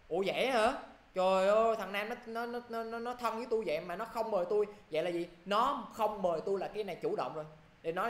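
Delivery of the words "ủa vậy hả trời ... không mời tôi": acted surprised complaint, pitched up; mock surprise. Friend complaining about not being invited to Nam's party, mock surprise. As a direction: act put out and astonished at being left out.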